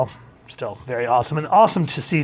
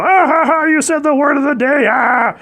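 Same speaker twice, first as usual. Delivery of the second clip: much higher and louder, shrieking Pee-wee cackle; Pee-wee Herman word of the day; 12 semitones higher, 8 dB louder than usual. Retold or imitated. Reviewer imitating the Pee-wee's Playhouse word of the day, shrieking. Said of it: "they'd go".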